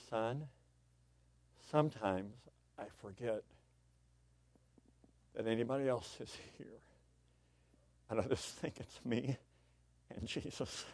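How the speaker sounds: soft, halting, with long pauses; hushed, confiding in broken phrases; humble confession. Retold or imitated. Dad explaining himself to his son, quiet and humble.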